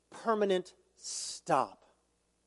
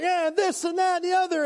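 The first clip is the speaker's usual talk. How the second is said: mock fired-up complainer, pitched higher; 10 semitones higher than usual. Preacher mimics a fired-up church member complaining, mock worked-up. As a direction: imitate someone venting, all worked up. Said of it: "they're fired up and they're like".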